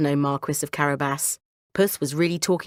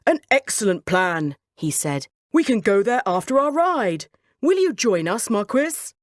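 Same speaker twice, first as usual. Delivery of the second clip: pleased king; 3 semitones higher than usual. Acted. King accepting dinner invitation, delighted. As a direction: accept eagerly.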